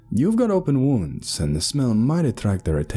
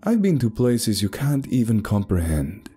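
higher-pitched boast; boastful traveler; 5 semitones higher than usual. Acted. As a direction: boast of far-off travels to doubters.

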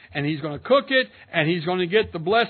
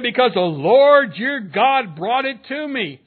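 pious deception; 3 semitones higher, 5 dB louder, slower than usual. Retold or imitated. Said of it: "listen to how now, in his deception".

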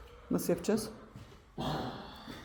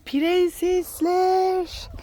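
high, very slow stretched pet voice; 12 semitones higher, much slower than usual. Real, not acted. Woman laughing fondly and calling her hens princesses in high baby talk. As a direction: dote on them like princesses.

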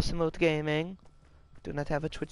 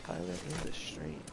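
robot voice; 5 semitones lower, 10 dB quieter than usual. Retold or imitated. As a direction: read it like a text-to-speech bot. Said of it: "this weird robot voice that tells me what people say".

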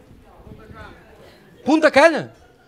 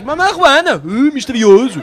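mock mysterious; 3 semitones higher, 4 dB louder, slower than usual. Comedian imitating the guy naming his drink, slow mock-mysterious. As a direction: tease it like a cheap mystery trailer. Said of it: "E o gajo".

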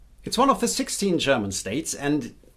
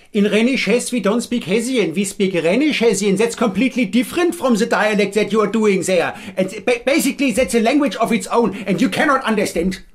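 louder, higher protest from an offended Rhenish Hessian; indignant local; 4 semitones higher, 4 dB louder than usual. Retold or imitated. Offended viewer from Rhenish Hesse complaining, indignant and louder. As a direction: protest loudly that your dialect is its own language.

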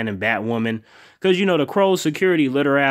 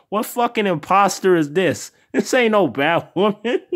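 laughing disbelief; 7 semitones higher than usual. Retold or imitated. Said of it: "I was like".

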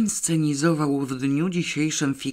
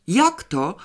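mildly indignant, pitched up; offended outburst, higher voice; indignant cry; 5 semitones higher, 4 dB louder than usual. A narrator's reading. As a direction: cry out in restrained outrage. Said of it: "krzyknął ktoś z oburzeniem".

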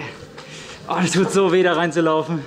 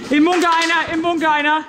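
sharp raised callout to the team; callout shout; 5 semitones higher than usual. Real, not acted. Calling out enemy position.

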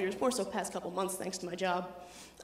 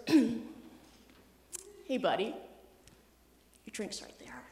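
whisper; 4 dB quieter, much slower than usual. Retold or imitated. Dad whispering to son.

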